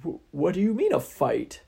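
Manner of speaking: nervous hero. Acted. Hero alarmed.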